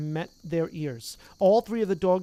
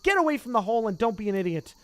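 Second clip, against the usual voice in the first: exploding; 4 semitones higher, 4 dB louder, faster than usual. Acted. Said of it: "Ron exploded".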